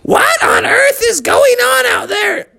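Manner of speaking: calling out. Acted. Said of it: "called out".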